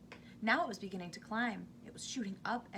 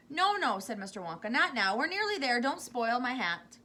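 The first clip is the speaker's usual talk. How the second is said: anxious plea; 3 semitones higher, 7 dB louder than usual. A narrator's reading. Wonka begging Missus T V not to be sick, anxious plea. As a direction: beg her to hold on. Wonka pleading about his hat.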